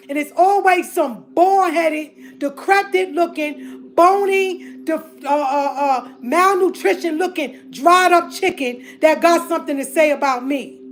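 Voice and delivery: angry rant. Real, not acted. Public rant at gossiping sisters.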